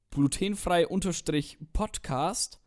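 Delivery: Wort für Wort langsam zum Mitschreiben; langsam diktiert. Real, not acted. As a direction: deutlich und gedehnt vorsagen. Diktiert den Instagram-Namen. (Hörern den Namen langsam diktieren)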